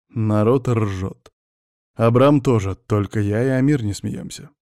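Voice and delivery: plain reading voice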